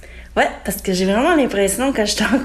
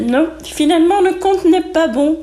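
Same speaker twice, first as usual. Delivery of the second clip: higher host announcement voice; game show verdict; 7 semitones higher than usual. Retold or imitated. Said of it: "on disait".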